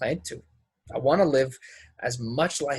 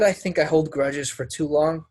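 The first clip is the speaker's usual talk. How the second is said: repeated louder; 3 semitones higher than usual. Acted. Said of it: "I said".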